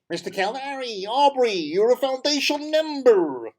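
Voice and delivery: put-on American-South African accent, drawn out. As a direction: put on the rabbi's American twang. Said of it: "he had this, like, American accent".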